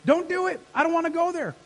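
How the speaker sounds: loud, high, urgent pleading; praying like a street fight; fighting prayer. Acted. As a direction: plead with God like in a battle. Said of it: "This is like".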